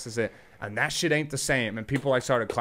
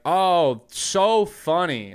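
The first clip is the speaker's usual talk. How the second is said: sarcastic heckle; 3 semitones higher, 4 dB louder, much slower than usual. Retold or imitated. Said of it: "like, doing".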